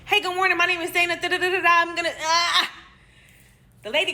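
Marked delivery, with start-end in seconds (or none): 0.1-2.7 high, bright-faced nurse introduction; fixed cheerful greeting. Retold or imitated. Nurse greeting a new patient, high put-on cheer. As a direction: put on a high professional hello. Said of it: "fix my face".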